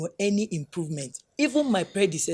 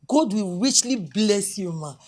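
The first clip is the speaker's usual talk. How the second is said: louder, slow and drawn out, heartfelt; fervent blessing; 5 dB louder, slower than usual. Acted. Doctor blesses the visiting official, loud slow fervent thanks. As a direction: pour out gratitude with each word.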